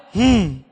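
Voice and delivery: absent-minded "hmm" of a busy man; indifferent grunt. Acted. Busy father ignores son's request, uninterested grunt. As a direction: hum a reply without listening.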